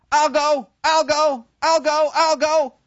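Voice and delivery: very high, excited volunteering; eager boys. Retold or imitated. Boys volunteering to enlist, high and eager. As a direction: chime in like schoolboys.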